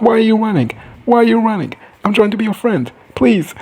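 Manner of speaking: high, whiny pleading call; mock pleading. Dragon begging the fleeing rider to stop, mock pleading. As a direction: plead after someone running away, hammed up.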